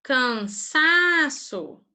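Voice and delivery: cansaço very slowly, syllables pulled apart; teacher sounding out slowly; slow syllable demo. Shown as a demonstration. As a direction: sound out cansaço for the class to hear the stress. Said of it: "Qual é a sílaba tônica?".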